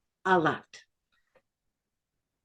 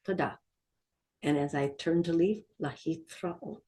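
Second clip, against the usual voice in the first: store role-play; 4 dB quieter than usual. Pretend. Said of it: "What am I going to say?".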